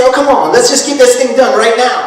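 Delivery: mildly acted hurry-up attitude; impatient American. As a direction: push to get it done, lightly acted. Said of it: "arrive in my American mentality and say".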